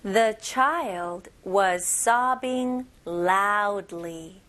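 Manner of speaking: very slow, clear model sentence for students to repeat; teacher reads it out slowly and clearly for repetition; slow model reading. Shown as a demonstration. Teacher models a sentence for the class, very slow and clear. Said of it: "이 문장 큰 목소리로 같이 한번 따라해 볼게요".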